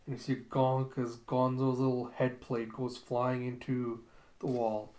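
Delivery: usual speaking voice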